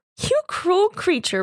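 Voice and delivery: teasing playful tone. Narrator reads Letty answering her husband's dry remark, playfully. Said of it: "returned Letty playfully".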